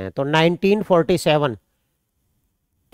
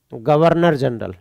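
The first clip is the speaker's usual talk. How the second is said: slow dictation; 4 semitones lower, slower than usual. Shown as a demonstration. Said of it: "अगर आपसे question पूछे".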